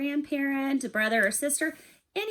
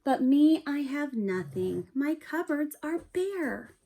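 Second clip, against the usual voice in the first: a mildly sad bear admitting he has nothing; 4 semitones higher, slower than usual. Acted. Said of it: "Bear's feeling a little bit sad".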